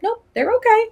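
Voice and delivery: high, light dismissive reply; breezy firm aunt. Retold or imitated. Aunt telling nieces the kids are fine, breezy. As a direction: brush it off cheerfully. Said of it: "And I was like".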